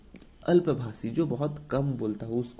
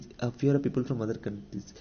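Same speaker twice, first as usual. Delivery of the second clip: a teacher dictating a definition again to students; slow dictation; much slower than usual. Shown as a demonstration. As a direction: repeat the definition slowly for notes. Teacher reads English definition aloud.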